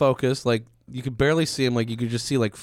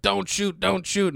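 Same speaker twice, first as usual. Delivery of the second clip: mock pleading; 8 semitones higher, slower than usual. Quoting general pleading in film.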